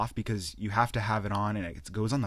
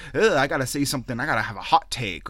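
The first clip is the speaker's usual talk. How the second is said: mock frantic streamer; 3 semitones higher, 6 dB louder, faster than usual. Imitating pressured streamer's thoughts.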